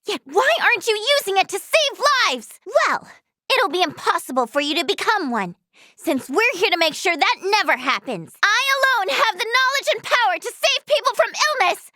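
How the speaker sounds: high, indignant tirade; indignant confrontation. Acted. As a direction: stand up to them with rising indignation. Heated argument with an opponent.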